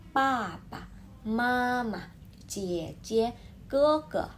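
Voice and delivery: first syllable of PAPA, MAMA full, second light; "papa", "mama" with a short unaccented ending; neutral-tone pairs. Shown as a demonstration. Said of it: "nada yang ringan".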